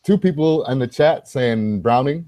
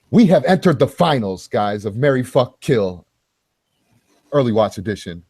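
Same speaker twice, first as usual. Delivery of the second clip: game show host. Acted. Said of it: "in your game show host voice".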